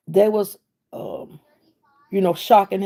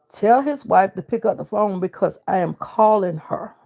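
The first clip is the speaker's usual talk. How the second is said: firm, spelled-out instruction; insistent, no-argument demand; insistent order. Retold or imitated. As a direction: lay down the order, stressing "I am calling her". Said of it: "just like that".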